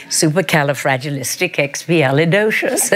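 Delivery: supercalifragilisticexpialidocious rattled off in one breath; word said on request. Shown as a demonstration. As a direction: say supercalifragilisticexpialidocious quickly, every syllable. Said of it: "go ahead".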